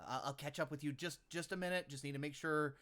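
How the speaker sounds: lightly voiced crew member; in-character line. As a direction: speak up to the party as your character. Player speaks in character to party.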